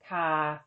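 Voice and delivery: ka level at mid pitch; ka, steady Thai mid tone. Shown as a demonstration. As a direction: say ka flat and even. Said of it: "is mid, as in".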